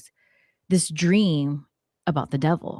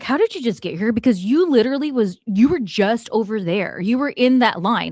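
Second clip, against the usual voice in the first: higher, emphatic disbelief; retold incredulous challenge; 4 semitones higher, 3 dB louder than usual. Friend confronting a stranger who suddenly appeared at their table, retold incredulous. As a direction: demand an explanation, baffled.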